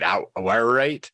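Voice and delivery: Awaruite tried out with a questioning rise; unsure pronunciation. Real, not acted. Interviewer checks the mineral's name with the guest, unsure pronunciation. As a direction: attempt "Awaruite" haltingly, ending as a question. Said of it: "how do you say it".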